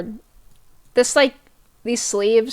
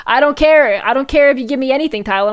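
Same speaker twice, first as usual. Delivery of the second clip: mock passionate declaration; 4 semitones higher, 4 dB louder, faster than usual. Mock love song to Tylenol.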